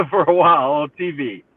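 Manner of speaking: high, loud ditzy celebrity gushing with a laugh; imitating a pop singer. Co-host imitates the singer recognizing the tall player, high, loud and giggly. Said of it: "Probably very vaguely".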